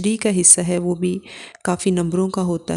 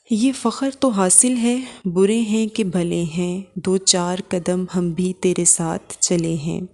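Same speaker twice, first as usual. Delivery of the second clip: poetry recitation. Acted. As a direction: recite the couplet line by line. Recites the couplet being taught.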